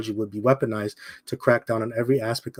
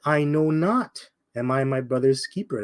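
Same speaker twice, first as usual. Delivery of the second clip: a lightly voiced Cain, playing dumb and slow; slow drawn-out denial. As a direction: stretch out "I know not" slowly like a guilty Cain. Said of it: "And he said".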